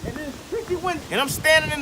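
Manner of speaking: mock live field report; news reporter.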